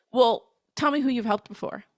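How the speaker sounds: put-on snarky, challenging, sarcastic tone. Speaker acts out what a client says to them, mock-snarky client. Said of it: "Like in a kind of snarky way".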